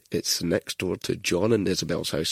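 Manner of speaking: slow, lightly voiced old man; hard-of-hearing old man. Prank caller giving directions, as a deaf old man. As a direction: take your time, like an oblivious pensioner. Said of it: "pretend to be an old man who couldn't hear".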